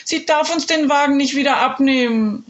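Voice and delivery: a hint of an upset girl; girl calling out. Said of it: "rief Jule".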